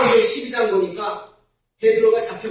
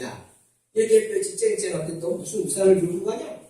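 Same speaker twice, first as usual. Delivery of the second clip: mocking; 4 dB quieter than usual. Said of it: "비웃는 거예요".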